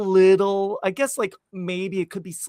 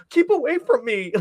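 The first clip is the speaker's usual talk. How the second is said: higher-pitched mock warding-off; imitated movie line; 9 semitones higher than usual. Character chased by Monique, higher imitated voice. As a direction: fend someone off in a put-on character voice. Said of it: "she just says".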